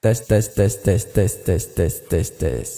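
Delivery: tes echoing and fading away; echoed phrase repeats. Shown as a demonstration. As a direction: let the tes repeat and die out. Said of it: "Nomor empat".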